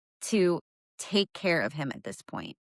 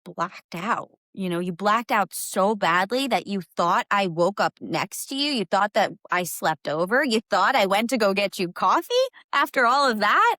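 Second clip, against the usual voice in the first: exasperated disbelief; 4 dB louder than usual. Retold or imitated. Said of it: "But I'm like".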